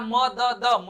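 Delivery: म द द as separate slow syllables; spelt out. Shown as a demonstration. Teacher reading the spelling, म द द said apart. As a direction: sound out म, द, द one by one. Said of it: "लिखा रहता है".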